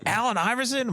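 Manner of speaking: high-pitched incredulous question; mock disbelief, voice shooting up high; retold astonishment. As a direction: imitate an uncle jolted out of a stupor. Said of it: "My uncle just came out of a drunk stupor".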